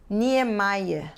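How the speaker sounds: Niemeyer said very slowly, ending "MY-eh"; pronunciation demo. Shown as a demonstration. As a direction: model "Niemeyer" slowly and carefully. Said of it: "Se diz".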